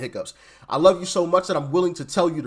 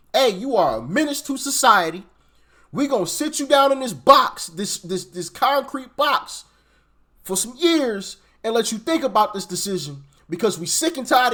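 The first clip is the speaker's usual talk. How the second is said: stern lecture; 3 semitones higher than usual. Retold or imitated. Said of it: "telling these folks the truth".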